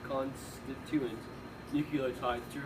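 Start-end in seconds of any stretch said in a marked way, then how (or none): 0.1-1.2 "constituent" said slowly, syllable by syllable; careful slow pronunciation. Real, not acted. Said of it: "consti-, constituent".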